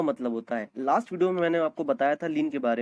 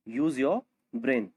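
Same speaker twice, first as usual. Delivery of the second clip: slow model repeat; 3 semitones lower, much slower than usual. Shown as a demonstration.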